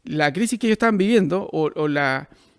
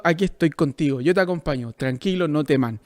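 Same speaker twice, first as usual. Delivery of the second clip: low, steady and comforting; a calm protector's low voice; gentle reassurance; 5 semitones lower than usual. Acted. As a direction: reassure them calmly, stepping lower toward the end. Explains Jesus' reassuring meaning to disciples.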